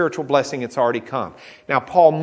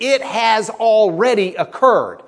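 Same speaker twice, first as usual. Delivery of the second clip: "already occurred" pitched up and punched louder; emphatic "already occurred"; 5 semitones higher, 4 dB louder than usual. Shown as a demonstration. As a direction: drive home "already occurred". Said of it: "the emphasis when you use that tense".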